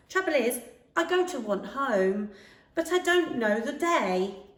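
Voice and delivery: put-on a small boy trying to explain he's lost; young hedgehog voice.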